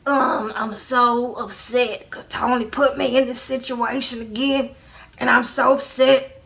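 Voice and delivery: a lightly worn-out, slowed mock whine; imitating worn-out voice. Mimicking Angela's worn-out voice at the jail, lightly tired. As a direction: mimic her tired, worn-down voice with some drag. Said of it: "Angela's voice seemed like it was wo-, worn out".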